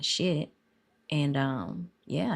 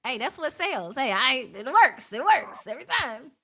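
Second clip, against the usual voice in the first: work voice; 6 semitones higher than usual. Real, not acted. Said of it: "This my work voice".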